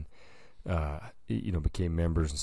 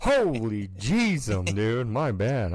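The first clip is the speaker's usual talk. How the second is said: mock embarrassed apology; 5 semitones higher, 4 dB louder, slower than usual. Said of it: "And you'd be like".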